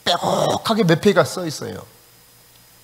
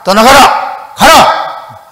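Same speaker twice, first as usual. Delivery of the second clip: louder and higher with each 가라; retold rising shout; 7 semitones higher, 9 dB louder, much slower than usual. Friend yelling at the demon to leave, rising retold shout. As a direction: build the command into a yell. Friend escalating exorcism command.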